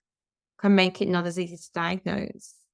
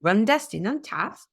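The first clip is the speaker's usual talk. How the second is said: Welsh accent; 2 semitones higher than usual. Shown as a demonstration. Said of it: "my Welsh accent always sounds Indian".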